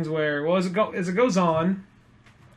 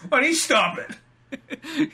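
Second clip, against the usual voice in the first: mock whine; 8 semitones higher, much slower than usual. Aquaman voiced as defensive.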